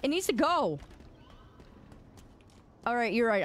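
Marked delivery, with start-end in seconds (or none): 0.0-0.8 frustrated and mad. Real, not acted. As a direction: scold the phlegm stuck in your throat. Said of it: "I got mad".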